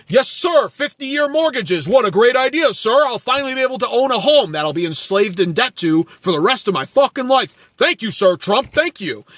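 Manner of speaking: a fawning supporter thanking Trump; mocking loyal follower. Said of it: "and you go".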